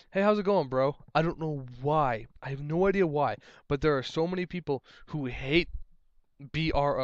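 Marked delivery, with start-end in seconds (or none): 0.1-0.9 casual bro greeting. Retold or imitated. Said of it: "people have a problem with".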